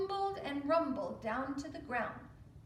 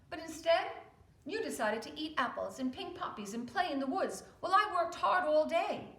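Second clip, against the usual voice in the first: louder, stern big brother; scolding oldest brother; 3 semitones higher, 6 dB louder than usual. Acted. Oldest pig scolding his careless brothers, stern and loud. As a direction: lecture the younger ones. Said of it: "said the oldest brother".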